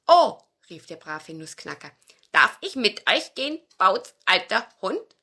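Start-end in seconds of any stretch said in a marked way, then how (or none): 0.1-0.4 high, loud joyful cry; delighted oh. Acted. Nutcracker hears the plan, high delighted cry. 2.3-3.6 higher, louder pleading; eager little nutcracker. Acted. Nutcracker asks the old dog, eager small voice. 3.8-5.2 louder, pleading question to Bauz alter Hund; eager nutcracker. Acted. Nutcracker begs the dog, hopeful small voice.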